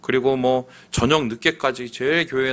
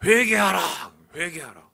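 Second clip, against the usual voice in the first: stern repeated command; 6 semitones higher than usual. Retold or imitated. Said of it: "재미있는 거는".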